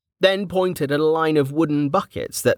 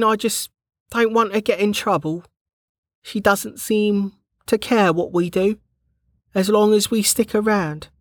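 higher, careful worried guard; Bregger's voice; 10 semitones higher than usual. A narrator's reading. Bregger warning Kettle about the citizen, anxious. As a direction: voice the nervous rule-follower.

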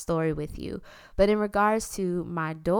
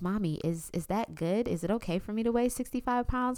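put-on worried child; 2 semitones higher, 5 dB quieter than usual. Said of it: "she turns to me and she says".

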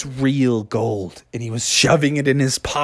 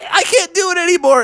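high falsetto groans and pleading; queasy Mother. Acted. Mother about to be sick, high queasy moaning. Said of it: "And she's like".

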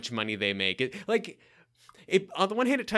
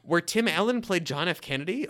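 teasing mishearing; 4 semitones higher than usual. Retold or imitated. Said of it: "I thought I said Glenn Ford".

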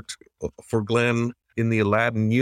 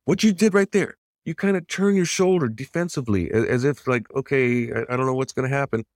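Glenn's excited coaching; 3 semitones higher than usual. Retold or imitated. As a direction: relive the mentor eagerly pointing it out. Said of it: "And he goes".

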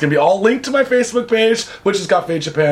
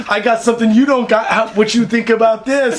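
put-on Puerto Rican accent; 3 semitones higher than usual. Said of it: "my police officer just turned Puerto Rican".

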